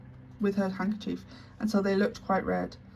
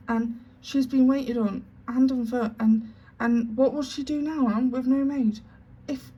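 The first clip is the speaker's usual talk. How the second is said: tearful plea; 4 semitones higher, 3 dB louder than usual. Acted. Tearful maid pleads for Sarah.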